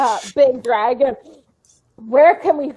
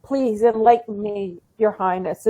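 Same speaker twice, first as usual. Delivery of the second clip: awkward. Acted. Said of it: "I'm kind of saying it awkwardly".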